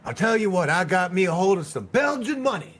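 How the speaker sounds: lightly voiced uncle bursting with news; mock excited uncle. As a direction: blurt it out like he can't hold the secret in. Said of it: "he goes".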